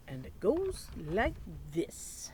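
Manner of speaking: hushed storyteller whisper. Acted. Teacher to children before the story, whispering. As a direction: whisper the lead-in to draw kids close.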